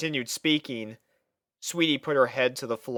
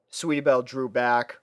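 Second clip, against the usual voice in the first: plain reading voice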